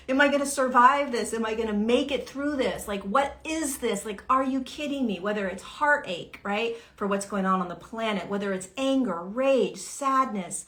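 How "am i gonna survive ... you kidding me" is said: higher, louder, half-acted panic; mock panic. Struggler in the rapids cries out in mock panic. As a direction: let the fear climb in the voice.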